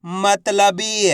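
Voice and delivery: मतलबी very slow, with a long final ee; syllables blended slowly. Shown as a demonstration. Teacher joining letters for repetition, मतलबी drawn out. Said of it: "तो मिलके बन जाएगा".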